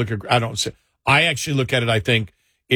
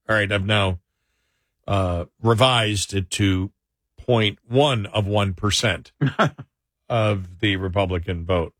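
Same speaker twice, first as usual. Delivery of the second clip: dry sarcasm; 3 semitones lower than usual. Real, not acted. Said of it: "I'm being sarcastic there".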